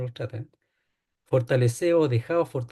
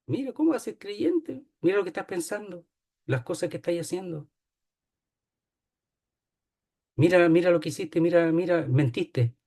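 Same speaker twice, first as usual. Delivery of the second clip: accusing devil. Acted. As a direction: whisper accusations to break his faith. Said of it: "Te dice a ti".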